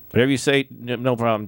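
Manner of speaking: thrilled go-along reply; eager agreement. Retold or imitated. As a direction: jump at the offer.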